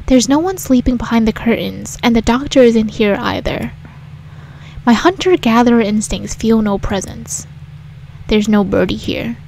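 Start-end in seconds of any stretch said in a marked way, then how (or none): none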